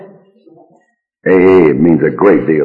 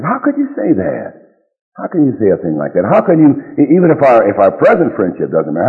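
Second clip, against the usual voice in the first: indignant pleading; 2 semitones higher than usual. Retold or imitated. Spurned friend reproaches the man refusing his loan, mildly indignant. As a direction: pile up the reproaches, aggrieved.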